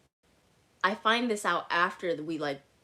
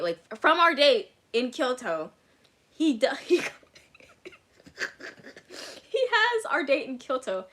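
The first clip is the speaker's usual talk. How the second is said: louder and higher, breaking into a laugh; laughing in disbelief; 6 semitones higher, 6 dB louder than usual. Real, not acted. Telling a friend how he cheated, laughing in outrage. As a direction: laugh at how absurd the betrayal is.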